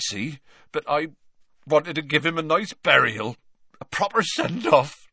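big rough-hewn half-giant, grieving; Hagrid. Acted. Hagrid tells Harry about the burial, voiced high and emotional.

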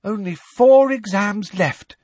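a drawn-out weary groan; wearily. A narrator's reading. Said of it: "said Parvati Patil wearily".

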